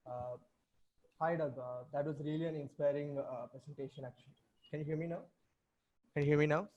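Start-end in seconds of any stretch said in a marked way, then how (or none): 6.1-6.7 speaking up for the mic; louder. Real, not acted. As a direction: lean in and speak up. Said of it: "You'll have to speak louder".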